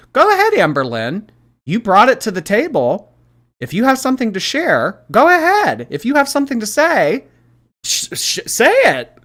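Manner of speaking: high, loud goading; loud challenge. Real, not acted. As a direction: dare her to speak, pitch soaring. Daring Amberlynn to speak up.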